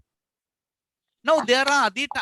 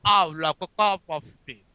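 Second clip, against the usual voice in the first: lightly put-on British accent; native British accent; 4 semitones lower than usual. Shown as a demonstration. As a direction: imitate a native speaker answering. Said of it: "the native people, they say".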